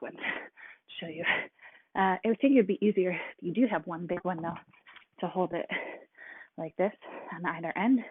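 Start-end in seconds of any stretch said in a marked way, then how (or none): 1.9-8.0 winded mid-workout, breathing hard. Real, not acted. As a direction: talk while catching your breath. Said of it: "I'm already out of breath".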